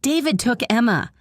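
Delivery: desperate trembling plea; broken trembling cry. Acted. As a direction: cry it out, voice breaking. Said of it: "In a broken, trembling voice, she cried out".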